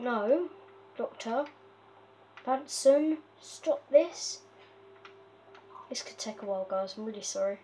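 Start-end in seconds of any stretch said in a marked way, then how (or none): 0.0-4.4 climbs higher and louder into a sharp telling-off; rising telling-off. Real, not acted. To the escaping villager, a rising loud scold. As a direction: scold him louder word by word.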